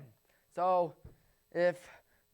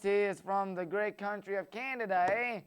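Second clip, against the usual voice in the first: bad Canadian accent. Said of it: "Horrible Canadian impression".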